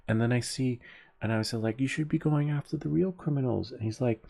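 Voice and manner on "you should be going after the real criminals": high-pitched mock indignation; retold indignant protest. Cyclist argues with ticketing officer, mock indignant. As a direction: act out arguing back at a cop.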